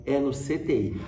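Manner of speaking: retold news with a light laugh; amused, laughing. Son tells dad about the ICU, amused. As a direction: break it to him with a chuckle. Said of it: "eu falava rindo".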